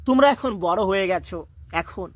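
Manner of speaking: a hint of a teacher's breaking voice; choked up. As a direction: voice fading into silence, mildly choked. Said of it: "আর বলতে পারলেন না".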